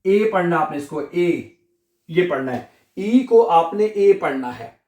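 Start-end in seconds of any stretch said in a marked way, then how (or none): 1.0-1.6 ए said as "ay", like the English letter A; English-style A. Shown as a demonstration. Teacher corrects how students read E, clearly pronounced. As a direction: say ए as a long "ay" for German E. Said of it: "English वाला ए".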